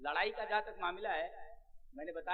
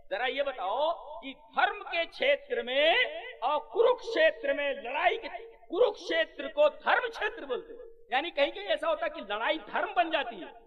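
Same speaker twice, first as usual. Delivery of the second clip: higher and louder, preaching at full force; raised, animated sermon voice; fervent preaching; 10 semitones higher, 12 dB louder than usual. Acted. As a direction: drive the point home like a sermon. Explains dharma with rising fervour.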